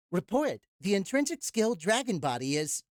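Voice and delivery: breathless, faking composure; winded, trying to sound normal; out of breath. Real, not acted. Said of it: "where I pretend I'm not out of breath".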